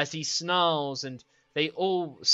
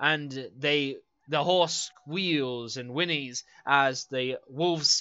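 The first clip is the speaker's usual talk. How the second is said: ordinary talk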